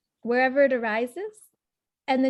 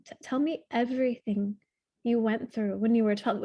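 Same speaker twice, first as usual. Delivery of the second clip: gentle invitation; 2 semitones lower than usual. Shown as a demonstration. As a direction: coax the boy to share everything. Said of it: "how you would talk to ... someone you love".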